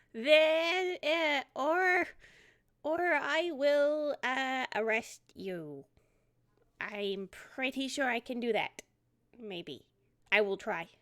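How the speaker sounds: faltering, slow, unsure threat; unsure boyish threat. Acted. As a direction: bluff an arrest you can't make. Rye stammers a threat.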